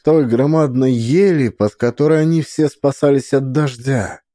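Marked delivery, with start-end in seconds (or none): none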